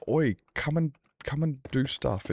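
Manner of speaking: high-pitched, put-on nagging invitation; pestering friend.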